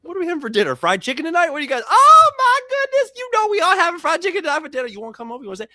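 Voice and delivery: high, loud hammed-up Southern auntie; silly put-on voice. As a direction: ham it up, playing silly for the ladies. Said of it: "I just get real silly with it".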